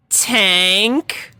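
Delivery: a touch of alarm; anxious. A narrator's reading. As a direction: ask nervously, something's wrong. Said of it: "Rainbow asked anxiously".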